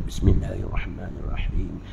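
just say it simply, no stretching; steady recitation. Shown as a demonstration. Teacher shows students the proper way, plain and steady. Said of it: "Buat steady je".

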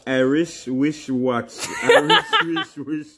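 fumbling tongue twister, cracking up; stumbling tongue twister, laughing; laughing stumble. Real, not acted. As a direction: trip on it and burst out laughing. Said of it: "Say it fast".

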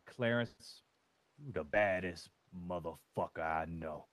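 low, swaggering self pep talk; mirror pep talk. Shown as a demonstration. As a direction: hype yourself up in the mirror like a smooth talker. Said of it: "I'll show you right here".

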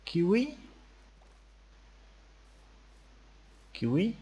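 calling out. Real, not acted. Calling for a lost pet.

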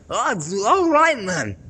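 high, loud Geordie impersonation; exaggerated, drawn-out Geordie accent. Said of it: "Geordie accent".

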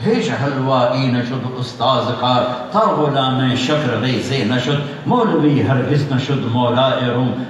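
slow, measured Persian verse recital; verse recitation. Acted. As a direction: recite the couplets slowly, drawing out each line. (ٹھہر ٹھہر کر شعر خوانی)

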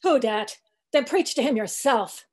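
a touch of sulky back-talk; sullen old cook. Acted. Old cook sulkily talking back to Stubb, grumbling.

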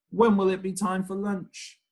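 high, sing-song hungry question; hungry refrain. Acted. Child in the story wondering about lunch, high sing-song voice.

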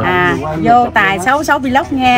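slow, deliberate shout-out to viewers; slow camera greeting. Pretend. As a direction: announce it slowly like a host. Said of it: "chị chào khán giả tiếng Hàn Quốc em nghe thử đi".

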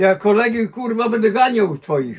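fed-up loud grumble at the warning; gruff retort. Real, not acted. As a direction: bark it back with a swear. Angry reply to friends warning.

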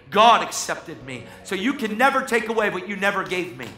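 rising defiant sermon declaration; preaching. Acted. Preacher to the congregation, declaring with defiant force. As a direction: proclaim it loud and unshakable to the crowd.

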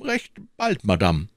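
a lightly voiced king, offhand; brushing the question aside; the king dodges the queen's question; evasive king.

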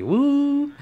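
high cheering whoop. Real, not acted. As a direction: let out a celebratory woo. Celebratory cheer.

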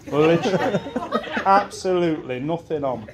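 laughing through the words; cracking up mid-story. Real, not acted. Telling friends about naked Simon, laughing.

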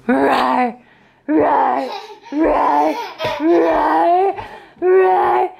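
playful roar broken by laughter; giggling while roaring at the toddler; laughing monster roar. Pretend. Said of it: "I'm gonna get you".

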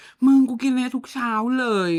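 mock squeal of delight, stretched out; gushing, squealing friend. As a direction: imitate an over-excited friend raving. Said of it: "ก็คือแบบกรี๊ดกราดมาก".

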